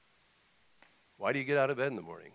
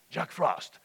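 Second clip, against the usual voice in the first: put-on Russian-accented summons, pitched up; North; 6 semitones higher than usual. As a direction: call him aside like a Russian Cossack. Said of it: "North, Santa Claus has this Russian".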